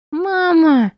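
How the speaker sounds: put-on high little girl's sob; child sobbing. Little girl clinging to her, sobbing. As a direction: cry it like a small child. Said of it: "всхлипнула малышка".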